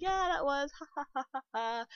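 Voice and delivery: high, loud fake laugh that trails off; mock laugh. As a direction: laugh it off mockingly at the customer. Fake laugh at the rude customer.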